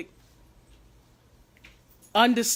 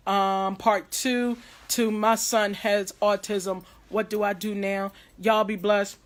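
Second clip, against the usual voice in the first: hoarse voice. Real, not acted. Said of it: "sounds like I'm losing my voice".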